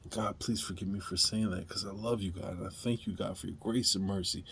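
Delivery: a hushed sincere apology to God; quiet sincere prayer. Real, not acted.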